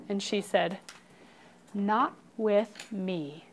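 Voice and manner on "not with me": slow, measured, quietly mean; soft, slow storybook villain threat. Acted. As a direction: space out each word with menace. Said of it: "Do it in a mean voice".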